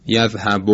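یذهب ending in a Persian "o"; slowly shown یذهب, last vowel open like "yazhabo"; Persian-style short vowel. Shown as a demonstration. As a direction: demonstrate the faulty یذهب with final "o".

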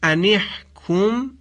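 ان احکم said slowly, mim held; pronunciation demo. Shown as a demonstration. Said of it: "یکی در". (تلفظ آهسته ان احکم)

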